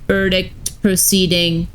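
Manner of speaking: lightly voiced robot warden; even, mechanical robot delivery. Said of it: "had robot voices".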